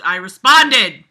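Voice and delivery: slow, loud mock outrage at a line of dialogue; mock indignant shout. Mocking the story's dialogue with a mock indignant shout. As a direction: bellow it out like a stiff bad-novel hero.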